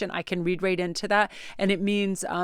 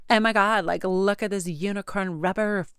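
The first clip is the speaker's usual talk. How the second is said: mock Kardashian teen; 4 dB louder than usual. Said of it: "teenagers that try to talk like the Kardashians".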